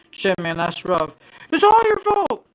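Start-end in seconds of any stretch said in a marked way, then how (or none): 1.5-2.5 high, loud angry outburst; angry accusation. Acted. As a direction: hurl the blame at him. Voiced accusation in a story.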